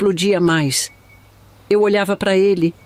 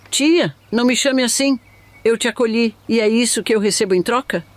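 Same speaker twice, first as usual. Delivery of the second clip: angry shout; 4 semitones higher than usual. Retold or imitated. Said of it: "Gritei com ela".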